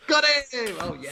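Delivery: excited. Real, not acted. Wicket celebration.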